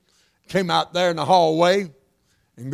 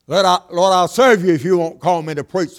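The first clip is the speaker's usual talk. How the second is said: raised pleading prayer voice; mock pleading prayer; 4 dB louder than usual. Preacher voicing a believer bargaining with God, raised pleading.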